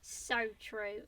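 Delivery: badly faked Australian "so true"; attempted Australian accent. Shown as a demonstration. Copying co-host's catchphrase, shaky Australian accent attempt. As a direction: have a failed go at Australian. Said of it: "I can't even do Australian accents".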